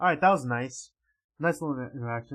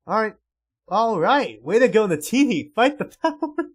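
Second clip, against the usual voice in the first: high, loud gleeful whoop; excited rowdy cheer; 5 semitones higher, 10 dB louder than usual. Acted. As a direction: cheer her on. Cheering the kitchen smashing.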